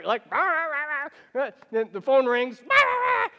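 high, loud rah rah ranting; mock yelling gibberish. Couple fighting at home, high mock yelling gibberish. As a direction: rant wordlessly in a high mock yell.

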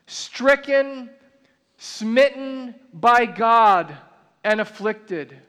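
slow, weighty reading of the verse with long pauses; solemn scripture reading. Acted. Preacher reads Isaiah to the church, slow and solemn. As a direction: lean into each phrase like a sacred text.

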